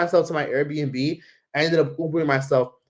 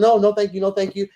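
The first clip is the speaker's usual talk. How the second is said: higher, quick brush-off; hurried polite refusal; 7 semitones higher, 3 dB louder than usual. Retold or imitated. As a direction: re-enact politely waving off a stranger. Acting out her refusal to stranger.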